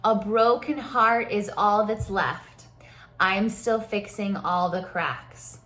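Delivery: slow, spoken lyric for others to follow; slowly spoken song lines. Shown as a demonstration. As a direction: speak the lines slowly, phrase by phrase. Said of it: "speak that, those lines with me".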